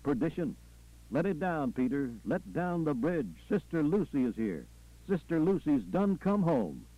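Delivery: lightly voiced Southern preacher in full vision; preacher, visionary. Preacher telling his flock what he sees in heaven, fervent. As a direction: preach it in rolling, repeated phrases.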